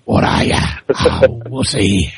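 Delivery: put-on Kiwi redneck accent. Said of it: "They sound like".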